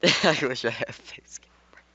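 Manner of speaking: whispered through laughter; laughing whisper. Real, not acted. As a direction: giggle it out under your breath. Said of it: "laughing aside to viewers".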